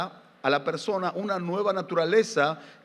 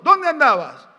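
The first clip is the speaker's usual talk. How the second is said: mother asking; 7 semitones higher, 9 dB louder than usual. Retold or imitated. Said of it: "mi mamá me preguntó".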